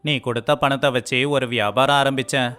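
plain reading voice

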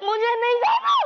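high-pitched protest; distressed refusal. Acted. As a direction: refuse in rising desperation. Acted quarrel, girl being forced to go.

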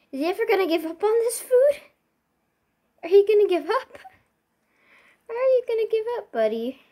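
high cooing pet voice. Real, not acted. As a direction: coo at the cat teasingly. Teasing the cat.

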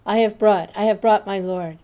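loud, ecstatic roar. A narrator's reading. Adwaita roars to the devotees in ecstasy. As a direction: roar it out in rapture. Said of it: "Adwaita roared".

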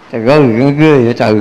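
quick mock-shocked exclamation. Monk teasing a lay woman, quick mock horror. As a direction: tease her, rattled off fast and amused. Monk reacts to bold phrase.

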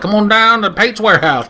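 hammed-up salesman opener; mock ad pitch. Selling Pate's gear like a late-night commercial, mock ad voice. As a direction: pitch it like a cheesy TV ad. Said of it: "I feel like I'm advertising".

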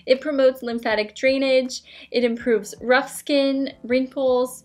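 speaking behind rigid mask; muffled behind face shield; through a face mask. Real, not acted. Seen 2: Glowing LED mask held over face throughout; mouth opening visible.

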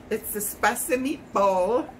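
put-on Italian accent; lightly faked Italian accent. Cook joking over her spicy Mexican dish, mock Italian accent. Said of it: "Now I'm doing Italian accent".

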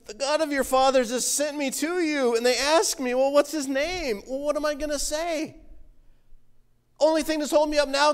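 mildly whining, reluctant Moses; whiny voice. Acted. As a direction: whine the objections, pitch lifting at times. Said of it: "I'm reading a whiny voice".

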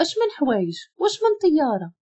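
startled questions climbing in pitch; taken aback, ending high; shocked. A narrator's reading. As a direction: pile up questions in rising disbelief. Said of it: "شهقت بالصدمة وقلت له".

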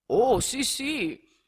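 excited cry of yes; eager exclamation. A narrator's reading. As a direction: jump at the offer. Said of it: "esclamò l'altro".

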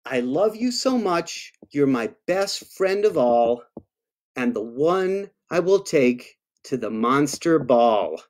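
storybook read-aloud; reading to children. Acted. Author reads a monster love poem to kids, storybook voice. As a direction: read it sweetly to little listeners.

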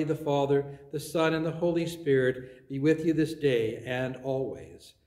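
solemn pastoral benediction; blessing. Acted. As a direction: bless the people warmly and firmly. Gives the closing blessing.

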